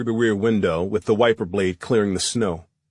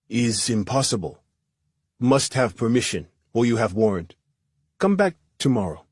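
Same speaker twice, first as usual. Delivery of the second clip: put-on Middle Eastern accent. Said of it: "in a Middle Eastern accent".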